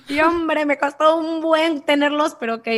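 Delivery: lightly voiced annoyed boss; boss grumbling. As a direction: play the reluctant boss conceding. Boss reacting to losing her patients.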